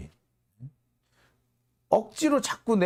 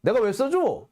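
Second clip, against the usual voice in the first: mock yelling; 5 semitones higher than usual. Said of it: "큰 소리를 빠락빠락 질러요".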